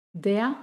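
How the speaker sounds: "der" ending in an open A sound; vocalized final R. Shown as a demonstration. Teacher demonstrating "der" with final R as A. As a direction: let "der" glide into A, no R. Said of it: "termina como un sonido de A".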